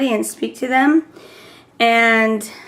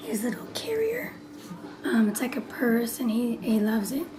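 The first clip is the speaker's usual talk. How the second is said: lost voice; 10 dB quieter than usual. Real, not acted. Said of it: "my voice is messed up".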